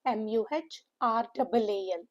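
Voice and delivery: "M U H R A A L" in separate letters, grouped by syllable; spelled-out pronunciation. Shown as a demonstration. Teacher showing students how morale is pronounced, spelled out. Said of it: "That is how we pronounce".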